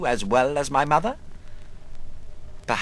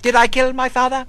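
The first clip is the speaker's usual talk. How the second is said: urgent inner question; 8 semitones higher, 7 dB louder, faster than usual. Acted. Quoted tormenting inner question.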